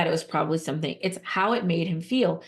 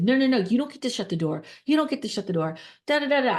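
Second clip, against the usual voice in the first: retold angry scolding; 5 semitones higher, faster than usual. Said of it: "I said".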